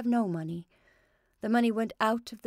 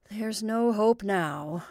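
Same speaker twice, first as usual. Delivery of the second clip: gloomy; 3 dB louder, much slower than usual. Acted. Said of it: "darkly shaking his head".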